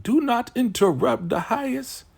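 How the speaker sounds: high, sharp mock scold; scolding order. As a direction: snap at the girl for interrupting. Elder smacks Zane, scolds.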